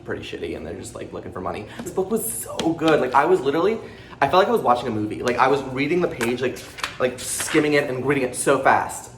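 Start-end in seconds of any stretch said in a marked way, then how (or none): 1.8-9.1 excited rush, lifted in pitch and volume; talking fast. Real, not acted. Raving to viewers about a thrilling book, talking fast. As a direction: gush about it at speed. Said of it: "Sorry that I'm talking so fast".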